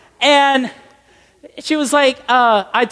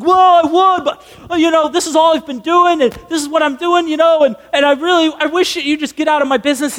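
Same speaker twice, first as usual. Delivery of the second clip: hammed-up higher-pitched excuse-making; defensive; 4 semitones higher than usual. Castaway wanting rescuer out of his business, mock defensive.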